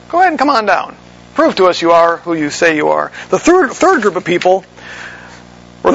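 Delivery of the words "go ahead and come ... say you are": mocking dare. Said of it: "they were asking him to perform a miracle".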